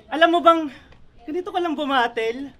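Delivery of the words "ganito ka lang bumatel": mock lifeless battle delivery; lifeless imitation. Rapper copying rival's battling style, lifeless imitation. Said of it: "Ginagaya ko lang, walang kabuhay-buhay".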